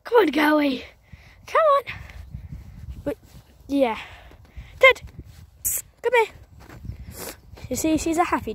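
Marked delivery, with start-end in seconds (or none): 0.0-1.8 calling a dog across a field. Real, not acted. 4.8-6.3 loud, high call across the field; calling the dog. Real, not acted.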